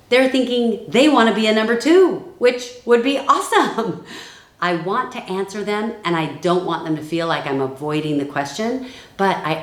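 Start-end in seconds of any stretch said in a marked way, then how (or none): 0.1-4.0 delighted. Real, not acted. Excited about eager recruit.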